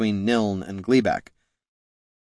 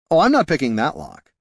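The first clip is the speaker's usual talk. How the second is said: breezy rogue voice; 6 semitones higher than usual. Acted. Haraldin refuses breezily.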